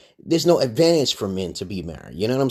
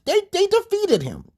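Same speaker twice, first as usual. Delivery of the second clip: much higher, loud, ending slow and drawn out; much higher indignant exclamation, dragging the last words; retold outburst; 3 dB louder, slower than usual. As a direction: shout it like it's obvious, then spell it out slowly. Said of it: "I just said".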